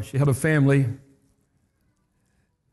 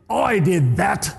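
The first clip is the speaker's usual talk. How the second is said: gloating neighbour; 3 semitones higher, slower than usual. Retold or imitated. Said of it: "He said".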